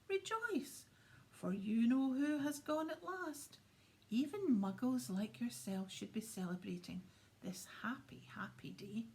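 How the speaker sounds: a hint of a giddy little old man squeaking with joy; squeaky old man. Tiny old man joyfully greeting Mister Dursley, lightly squeaky whisper. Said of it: "he said in a squeaky voice".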